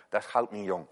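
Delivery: "goud" in het Gronings uitgesproken als /xɑwt/; Gronings dialect. Shown as a demonstration. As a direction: een poging tot Gronings: "Dat is goud niet jong". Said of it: "als ik dat al goed uitspreek". (de dominee doet Gronings na voor de gemeente)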